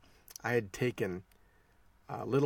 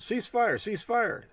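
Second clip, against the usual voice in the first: high-pitched, louder mock shout; retold yell; 13 semitones higher, 4 dB louder, slower than usual. Instructor halting his class at the firing line, imitated yell. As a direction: call out urgently, as if across a firing line. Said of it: "I yelled".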